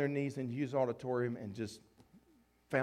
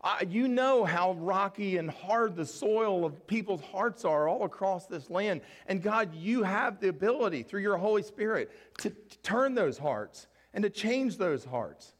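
earnest prayer; 5 semitones higher, 3 dB louder than usual. Retold or imitated. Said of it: "I'm like".

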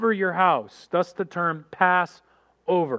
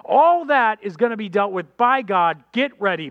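high, loud fiery warning; John the Baptist warning the crowd of judgment; warning prophet; 4 semitones higher, 3 dB louder than usual. Retold or imitated. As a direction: preach judgment at them. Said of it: "his message has been".

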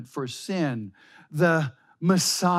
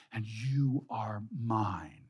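hushed whisper; 6 semitones lower, 7 dB quieter, slower than usual. Acted. Preacher reading God's promise to the congregation, whispered. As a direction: whisper it softly and slowly.

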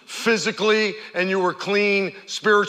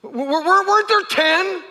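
high, stammering disbelief; incredulous; 13 semitones higher than usual. Retold or imitated. Jesus asking where the other nine went, stammering disbelief. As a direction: act baffled that the count is off.

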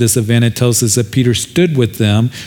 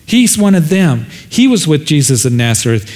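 blabbing accusation; 2 semitones higher than usual. Acted. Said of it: "she starts blabbing it to everybody".

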